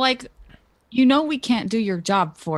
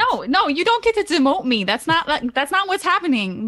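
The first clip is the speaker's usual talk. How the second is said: higher, insistent in-character protest; indignant refusal; 4 semitones higher than usual. Acted. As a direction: flatly refuse to be demoted. Player in character refuses demotion.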